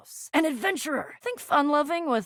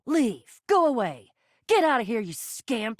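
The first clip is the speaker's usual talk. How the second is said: raised-voice commands to leave; shooing away; 3 dB louder than usual. Acted. Telling a scamp to get out, loud dismissal. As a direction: drive the pest off firmly.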